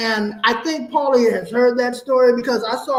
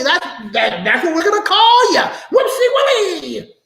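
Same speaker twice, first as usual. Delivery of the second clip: over-exaggerated mother's voice; 7 semitones higher than usual. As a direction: crow out the nickname like a delighted old woman. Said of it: "sometimes I, I over-exaggerate it".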